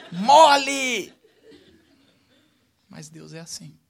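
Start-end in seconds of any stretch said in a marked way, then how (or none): 0.1-1.1 Mole! shouted high and loud through a laugh; mock angry shout. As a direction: bark the word with laughing fake rage. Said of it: "eu fico com tanta raiva".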